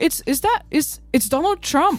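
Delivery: high-pitched fake surprise; mock amazement. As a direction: announce the guest with put-on astonishment. Announcing a surprise guest in improv.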